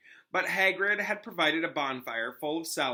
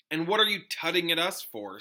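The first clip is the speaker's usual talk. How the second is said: irked demand, a bit louder; irritated question to Hermione; irritable Ron; 4 semitones higher, 4 dB louder than usual. Acted. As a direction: push back at her, annoyed. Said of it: "said Ron irritably".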